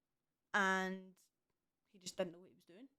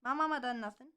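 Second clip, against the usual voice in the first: indignant daughter; 5 semitones higher, 4 dB louder than usual. Retold or imitated. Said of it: "I'd be like".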